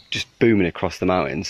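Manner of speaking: ordinary talk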